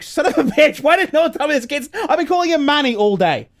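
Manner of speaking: loud, high frustrated rant with a laugh; retold exasperated yell; exasperated outburst. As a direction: blurt it out, annoyed at yourself.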